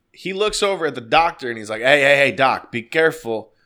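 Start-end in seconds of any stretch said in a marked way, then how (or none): 1.8-3.5 retold loud warning. Roommate warning the doctor.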